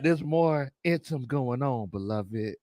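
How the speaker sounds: slow, lightly voiced solemn sage; a hint of preachy cousin, drawn out; Big Low Conspiracy. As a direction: repeat it unhurried, dead serious. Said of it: "do my best Big Low Conspiracy im".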